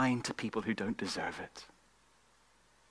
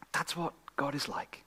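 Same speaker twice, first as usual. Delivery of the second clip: whispered, softer line; hushed whisper; 5 dB quieter than usual. Real, not acted. Preacher whispering to the congregation, hushed. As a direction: breathe it out as a whisper. Quiet emphasis in sermon.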